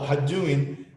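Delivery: "How doing" run together as "ha-duin"; casual, slurred "How doing"; contracted form. Shown as a demonstration. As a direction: squash it into "hadduin".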